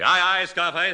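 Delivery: loud pirate aye aye; hearty hail. Acted. Cuck Powder hailing Scarface, loud hearty greeting. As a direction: bellow the greeting. Sailors hailing each other.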